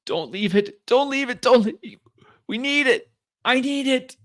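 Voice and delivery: high, desperate plea; crying out. Acted. Wounded Isabella pleading for the package, crying out. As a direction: beg frantically, repeating yourself. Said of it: "she cries out".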